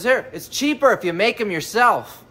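punchline yell. Retold or imitated. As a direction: belt out the joke's punchline. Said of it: "I'm yelling".

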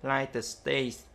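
"United States" drawn out very slowly; teacher spells out "United States" slowly for students; slow English demo. Shown as a demonstration. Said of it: "U S A là".

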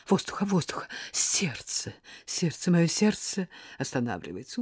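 hushed, gasping theatrical plea; faked heart attack. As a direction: moan it as if the heart is stopping. Fake dying, clutching her chest.

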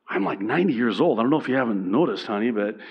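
sassy Southern woman with swooping pitch; Southern accent. Acted. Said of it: "Sorry for the southern accent".

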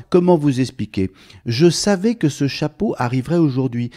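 high, rushing rambling chatter; excited chatterbox. Acted. Mr Bavard rambling at the hatter, high and excited.

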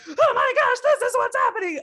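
very high, loud laughing burst; laughing gush. Retold or imitated. Friend gushing news to a mirror, high and laughing. Excited person coming to a mirror.

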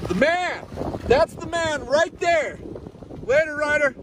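high excited shout after a friend; calling out. Real, not acted. Vlogger shouting goodbye to his departing friend, excited. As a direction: call out to him as he drives off.

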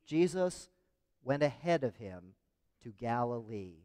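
phrase by phrase, pausing for others to join; measured call to recite, broken by pauses; leading group recitation. Shown as a demonstration. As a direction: lead the congregation in saying it together. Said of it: "will you say it with me".

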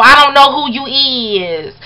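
slow, sassy mock of the girl; neck-rolling sass. Mother mocking the girl's video, slow and sassy. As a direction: drawl it with a neck roll, mocking her. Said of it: "rolling her neck and everything".

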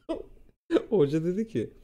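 ordinary talk

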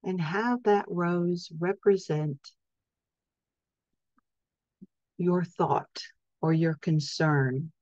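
calm, measured meditation voice with long pauses; guided sleep hypnosis. Acted. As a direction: gently guide listeners into rest, leaving space for each breath. Leads a sleep hypnosis session.

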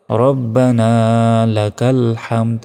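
"রব্বানা" with rounded start and long final a; "হামদ" with a strong throaty h; correct recitation. Shown as a demonstration. Teacher showing words said standing, measured recitation. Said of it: "তখন আবার এইটা বলতে হয়".

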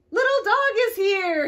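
a proud, bright call to the animals. A narrator's reading. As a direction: call it out to the whole hill. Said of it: "he called out".

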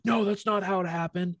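high whiny mock voice of the other guy; hammed-up whiny protest; mocking whiny classmate. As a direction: whine it like a petulant kid. Classmate whining, mocked high.

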